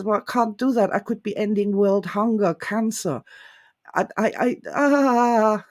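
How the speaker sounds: flustered stammer rising to a strangled cry; mock distress, breaking off in a gasp; distraught. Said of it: "the man is just distraught and says".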